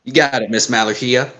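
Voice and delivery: lightly voiced girl, not convincing; a half-hearted go at a girl's voice; badly faked girl voice; attempted girl voice. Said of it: "I cannot do a good girl voice".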